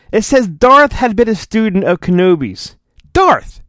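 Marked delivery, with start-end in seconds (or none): 3.1-3.6 high call across a room; a raised hail across the classroom. Retold or imitated. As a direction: shout the name up high. Calling someone by name.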